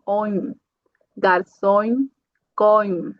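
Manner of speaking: garçom ending in a nasal on. Shown as a demonstration. Teacher demonstrating the nasal on for students. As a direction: let garçom end on nasal on. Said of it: "vai ser on".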